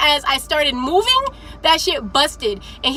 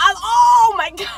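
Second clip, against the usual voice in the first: laughing embarrassed; 7 semitones higher than usual. Real, not acted. Mortified on being called out.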